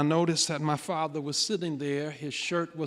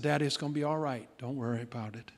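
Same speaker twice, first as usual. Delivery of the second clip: reassuring; 2 semitones lower, 5 dB quieter, faster than usual. Retold or imitated. Son comforts his tearful father, reassuring. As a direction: gently settle him down, voice dropping away.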